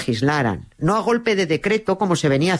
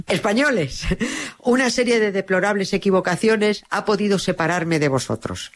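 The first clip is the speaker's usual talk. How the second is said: lightly mock proclamation, opening word pitched up; a hint of pompous speechifying; royal manifesto; 3 semitones higher than usual. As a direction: declaim it like a queen addressing her people, amused. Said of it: "porque empezaba diciendo".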